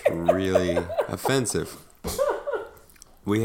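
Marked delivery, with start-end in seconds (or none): 0.0-1.8 laughing through mock offense; mock offended laugh. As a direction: fake indignation, laughing.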